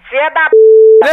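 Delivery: loud, slow furious curse; angry shout. Real, not acted. Grandma yelling a curse at the prank caller, furious. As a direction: she spits the insult out, loud.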